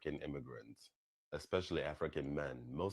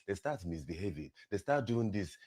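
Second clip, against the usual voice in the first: mocking imitation; 7 semitones higher, 4 dB louder than usual. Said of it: "they be saying dumbass shit like".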